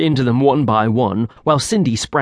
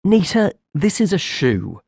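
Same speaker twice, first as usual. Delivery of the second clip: simple creature voice; 6 semitones higher than usual. Acted.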